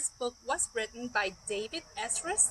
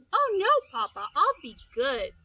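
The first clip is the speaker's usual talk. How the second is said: chick voice; 5 dB louder than usual. Acted. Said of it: "chick promises Papa".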